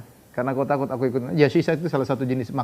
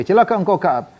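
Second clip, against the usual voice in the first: boastful proclamation; 3 semitones higher, 4 dB louder, slower than usual. Retold or imitated. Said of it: "Kata Huyai".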